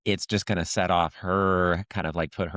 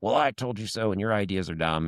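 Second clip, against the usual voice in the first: mock gloating; 3 semitones higher than usual. Wife gloating in acted quarrel.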